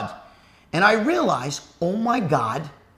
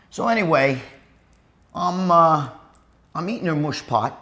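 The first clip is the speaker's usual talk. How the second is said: talking while chewing gum. Real, not acted. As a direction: mouth full of gum. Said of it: "don't mind me, it's gonna be really foul".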